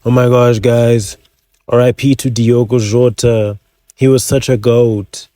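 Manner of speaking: milk the fake grief, then slide into the sales pitch; mock grieving influencer. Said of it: "the same energy as me saying".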